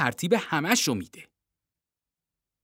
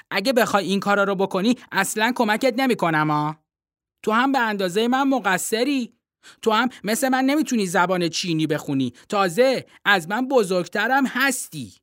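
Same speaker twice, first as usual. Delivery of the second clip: put-on a boy's voice, higher, insistent; young boy Timothy; 5 semitones higher than usual. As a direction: read the boy higher and earnest.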